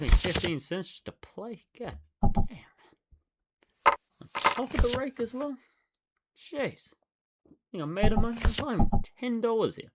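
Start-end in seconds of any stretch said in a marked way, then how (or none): 1.8-6.9 breathy, muttered annoyance; whispered curse. Real, not acted. Player annoyed at paying to play, whispered curse. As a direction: curse under your breath.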